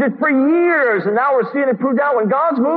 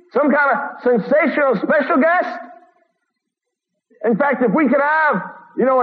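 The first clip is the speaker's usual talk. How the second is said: mocking, raised sarcastic tone; 2 semitones higher than usual. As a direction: lay the sarcasm on thick. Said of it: "a tinge of sarcasm in my voice there".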